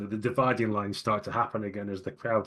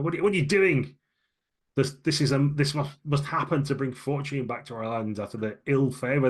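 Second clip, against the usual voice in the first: higher, louder insistent protest; indignant Callias; 5 semitones higher, 3 dB louder than usual. Acted. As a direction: demand they listen to the priest. GM voices Callias arguing.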